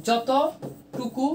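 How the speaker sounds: যতটুকু stretched very slowly, each sound held; drawn-out word. Shown as a demonstration. Teacher stretching যতটুকু for students, very slow. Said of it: "যতটুকু উচ্চারিত হয়".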